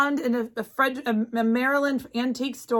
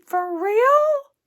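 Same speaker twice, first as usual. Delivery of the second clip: for real; 11 semitones higher, 5 dB louder than usual. Real, not acted. Moved by grandmother's linens offer.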